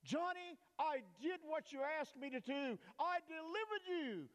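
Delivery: a hint of a booming divine voice; voice of God. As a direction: speak as God announcing deliverance. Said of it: "finally God said".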